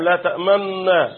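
لا تأمنا slowly, held on the doubled nun; ishmam recitation. Shown as a demonstration. Teacher shows the example from Yusuf, ishmam recitation. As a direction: linger on the nn of تأمنا. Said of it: "الإشمام اللي موجود في سورة يوسف".

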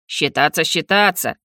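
ехидно, сдержанно; поддразни соперника с лёгким фырканьем; Арвендел. Acted. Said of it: "ехидно фыркнул Арвендел". (ехидно)

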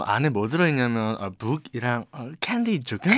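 lightly imitated Korean American accent. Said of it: "교포인 척 한다고서".

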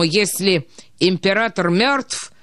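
ordinary delivery, nothing marked

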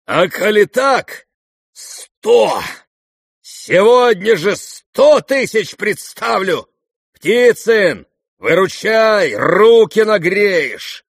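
high, loud, slow bragging shout. A narrator's reading. Rogozhin raising his bid to a hundred thousand, shouting. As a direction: boast it to the whole room. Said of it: "Rogozhin raising his bid".

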